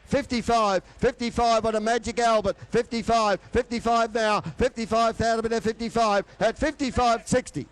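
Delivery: fast rhythmic auctioneer bid calling; frantic trading floor shouting. Acted. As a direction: rattle off the bids like an auctioneer.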